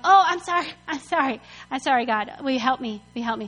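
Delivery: hammed-up sorry, trailing down; pleading apology. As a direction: beg sheepishly, repeating yourself. Israelites begging forgiveness, retold.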